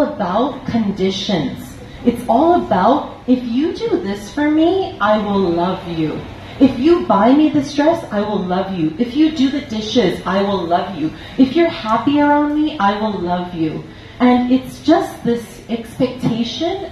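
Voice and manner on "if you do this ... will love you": sing-song demands of a conditional lover; mock demanding lover. Teacher voicing a demanding partner, lightly mocking sing-song.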